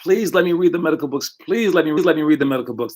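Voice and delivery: a hint of a small kid pleading; begging kid. First grader begs parents for books, mock pleading. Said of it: "first grader was like".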